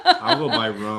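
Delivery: high laughing reply. Real, not acted.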